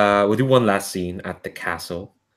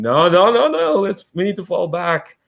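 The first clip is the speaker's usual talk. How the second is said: urgent commander; 8 semitones higher than usual. Acted. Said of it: "Commander Hirza going".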